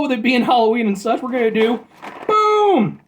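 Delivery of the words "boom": high, loud, drawn-out boom; showy exclamation. Pretend. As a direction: belt it out like a big product reveal. Showy reveal of each candy.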